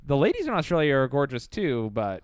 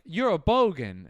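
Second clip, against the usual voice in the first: bad Australian accent; 3 semitones higher than usual. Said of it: "that was a terrible Australian".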